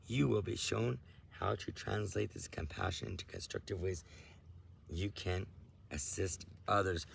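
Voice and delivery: measured, solemn reading of a spiritual message; a calm, lightly intoned channeled reading. Acted. Speaking to listeners about their awakening, in a measured solemn read.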